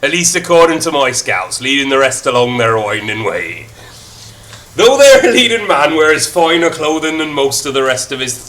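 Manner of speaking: Irish reading that slides toward Birmingham; a mild Irish-to-Brummy narrator; Irish accent dipping into Brummy. Acted. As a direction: let the Irish lilt slip into Brummy. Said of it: "Was that a Brummy accent?".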